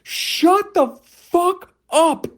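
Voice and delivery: very high, loud, slow drawn-out shout; slow screeching shut up; imagined scream. Retold or imitated. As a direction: scream it in his face. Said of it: "just go".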